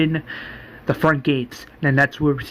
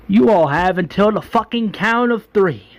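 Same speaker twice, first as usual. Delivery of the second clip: acted ultimatum, pitched up; threatening ultimatum; 4 semitones higher than usual. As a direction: threaten them as the governor, voice raised in pitch. Governor threatens his own men.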